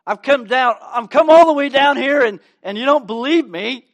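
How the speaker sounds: the offended angel protesting, hammed up. Gabriel scolding Zechariah, mock-indignant and loud. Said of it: "He's like".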